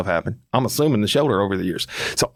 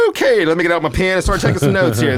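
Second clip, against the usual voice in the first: sarcastic; 5 semitones higher, 3 dB louder than usual. Retold or imitated. Sarcastic reply to bad news.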